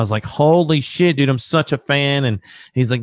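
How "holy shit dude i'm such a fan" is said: starstruck. Retold or imitated. Starstruck fan on the phone.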